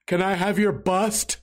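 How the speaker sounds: put-on slow, odd little kid asking; odd kid's voice. Strange kid at the game asking for the bobblehead, slow and odd. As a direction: drag the question out like the strange kid.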